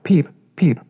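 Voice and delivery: high little chick peeps; tiny high peeping chick; duckling peep. Acted.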